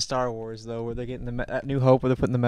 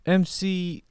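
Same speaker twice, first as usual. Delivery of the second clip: rapper voice; 4 semitones higher, 4 dB louder than usual. Pretend. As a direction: hype rapper shout-out. Mock rapper intro for friend.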